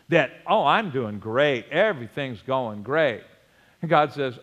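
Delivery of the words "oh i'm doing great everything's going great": mock pompous boast, slightly lowered; puffed-up mock confidence; pompous self-satisfaction. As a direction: play a mildly smug boaster, pitched down. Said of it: "times of pride and pompous attitude".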